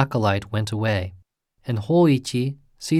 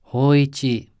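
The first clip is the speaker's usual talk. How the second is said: calling out; 3 semitones higher, 4 dB louder than usual. A narrator's reading. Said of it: "the deep voice called".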